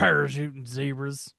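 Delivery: mock Southern exclamation; Southern accent. Shown as a demonstration. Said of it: "need to do a southern accent".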